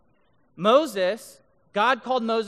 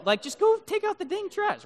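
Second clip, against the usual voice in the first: exasperated; 12 semitones higher than usual. Acted. Mocking teen slang.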